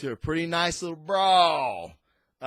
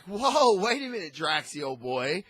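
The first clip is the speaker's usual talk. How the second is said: put-on accidental Scottish accent; 2 semitones higher than usual. Rocket talking Drax out of it, light accidental Scottish accent. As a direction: slip slightly into a Scottish lilt. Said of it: "a Scottish accent or something".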